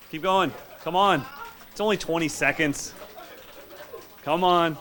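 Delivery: loud, high cheering from the sidelines; hoarse marathon cheering. Real, not acted. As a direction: push them through the burn. Coach cheering drummers during workout.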